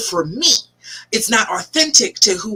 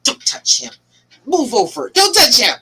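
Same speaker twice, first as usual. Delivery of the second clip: mad inner voice; 2 semitones higher than usual. Acted. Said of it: "if I'm mad, my brain is like".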